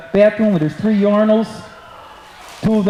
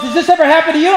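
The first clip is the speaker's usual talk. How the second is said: announcer voice; 5 semitones higher, faster than usual. Retold or imitated. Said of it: "And the announcer goes".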